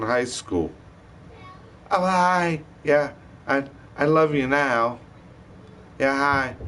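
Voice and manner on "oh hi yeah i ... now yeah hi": mock sweet phone voice. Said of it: "calling him all day like they're goddamn best buddies".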